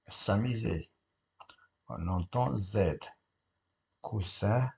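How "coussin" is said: "Coussin" avec un S sourd au milieu; son S. Shown as a demonstration. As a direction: say "Coussin" with a voiceless s between the vowels. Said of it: "on entend S". (« Coussin » prononcé avec le son S)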